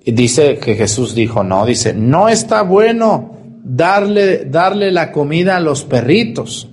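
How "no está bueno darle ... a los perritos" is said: softened version. Shown as a demonstration. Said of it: "la traducción original en griego".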